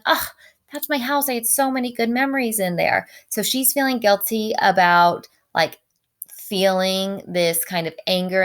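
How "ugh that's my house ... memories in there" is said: mock lament. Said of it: "or even just thinking like".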